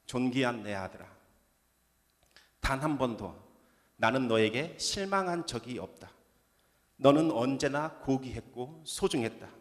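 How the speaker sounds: gentle, unhurried words of a loving father; tender fatherly voice. Retold or imitated. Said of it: "하나님은 다시 저에게 말씀하셨습니다".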